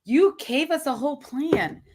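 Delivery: slow, pointed reminder. Real, not acted. Co-host reminds host of the plan, pointed tone. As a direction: say it slowly, with some attitude. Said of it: "did you notice that tone?".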